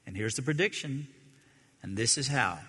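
ordinary delivery

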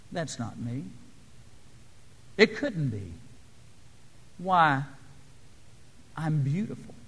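very soft, awed murmur; hushed disbelief. A narrator's reading. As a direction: say it under the voice, as if stunned. Teacup stunned by its reflection.

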